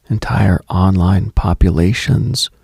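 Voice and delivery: ordinary talk, nothing marked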